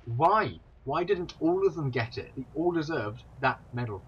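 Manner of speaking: loud, high-pitched indignant protest; real outrage on the crew's behalf. Real, not acted. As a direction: demand an answer, genuinely aggrieved. Protests crew's unequal medals.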